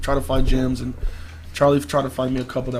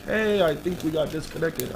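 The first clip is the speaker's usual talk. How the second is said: cordial; 6 dB quieter than usual. Retold or imitated. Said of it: "still trying to be, like, cordial".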